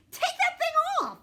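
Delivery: annoyed demand. Acted.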